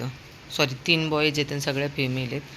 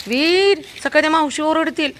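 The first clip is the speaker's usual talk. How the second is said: alarmed urging; 10 semitones higher, 8 dB louder than usual. Real, not acted. Alarm at dog's mess.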